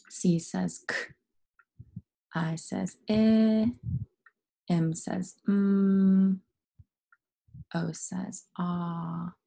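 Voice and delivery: slow, each sound held or released alone; name each letter, pause, stretch "eh", "mm", "ah"; letter name, then sound. Shown as a demonstration. Teacher spelling comic away, slowly giving each letter's sound. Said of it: "let's spell it away".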